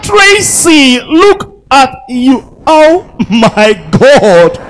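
mock a girl fawning over her friend; gushing girl. Comedian mimicking a girl gushing at Tracy, high and squealy.

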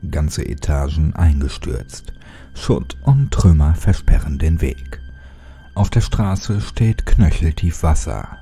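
dark, measured storytelling voice; horror story narration. A narrator's reading. Narrator reading a horror creepypasta to his viewers in a dark tone. Reads creepypasta over music.

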